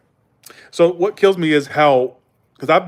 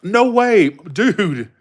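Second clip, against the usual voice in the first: higher mock California Valley voice; badly faked Valley accent; 5 semitones higher, much slower than usual. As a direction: imitate an amazed West Coast dude. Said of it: "they sound very valley".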